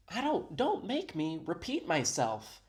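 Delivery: lightly acted warning; imitating the woman. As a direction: mimic her scolding, drawing it out. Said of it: "She's like".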